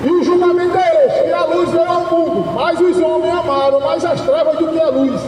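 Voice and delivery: declaimed Bible verse, pitched a little up; proclaiming scripture in measured phrases; scripture reading. Acted. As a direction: read the verse out to a crowd. Reads the verse again.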